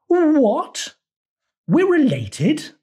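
very high squeak of disbelief; shocked frog. A narrator's reading. Frog stunned to learn they are related, high shocked squeak. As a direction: gasp it out, stunned.

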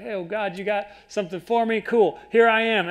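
eager, rising in pitch, quick and bright; excited. Retold or imitated. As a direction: jump at the chance like an eager disciple. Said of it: "All excited".

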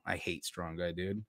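ordinary delivery

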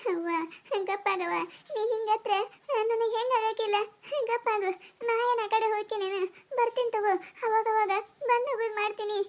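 tender consoling. Acted. Bride to her crying mother before leaving, tenderly consoling. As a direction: gently hush a weeping mother.

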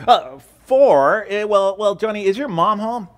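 a hint of a cheerful cold caller; telemarketer. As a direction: salesman calling a house. Telemarketer voiced in joke.

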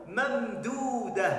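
ممدودة said slowly, the final alif drawn out long. Shown as a demonstration. Teacher to pupils, drawing out the alif of ممدودة. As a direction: stretch the alif in ممدودة for the class. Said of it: "إنها ألف".

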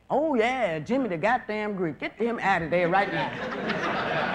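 hammed-up outraged activist; mock outraged activist. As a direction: play an indignant spokesman, drawn out. Mock voice of civil rights group.

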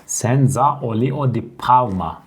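slow, drawn-out senza olio di palma; Italian accent. Shown as a demonstration. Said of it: "onların okunuşları farklı".

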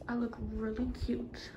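soft unvoiced whisper to self. Real, not acted. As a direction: breathe it quietly to yourself.

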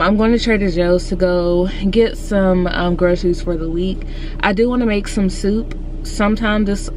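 slushy sh for s; lisping through a retainer. Real, not acted. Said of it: "I sound so".

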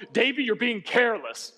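lightly voiced stern grandpa; powerful grandpa. Grandpa telling grandson he is careless, powerful voice. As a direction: imitate grandpa's forceful reproach. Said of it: "my grandpa's powerful voice".

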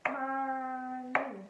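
"Mommy" slowly in two held beats; level, drawn-out Mom, my for "Mommy"; clapped syllables. Shown as a demonstration. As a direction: stretch each half of "Mommy" to a clap. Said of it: "So let's do it again".

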